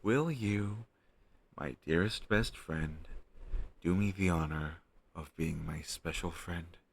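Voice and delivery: a hint of grand ceremony, slowed on the address; mock formal proposal. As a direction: play the stiff, solemn proposer. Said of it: "the least romantic way to ask someone out ever".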